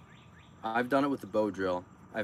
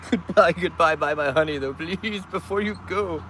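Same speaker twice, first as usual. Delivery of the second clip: singsong calling out; 4 semitones higher than usual. Pretend. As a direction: call after the car. Calling to passing cars.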